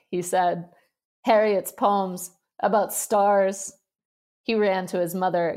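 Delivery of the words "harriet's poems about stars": giggling tease. Acted. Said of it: "giggling and holding out the papers".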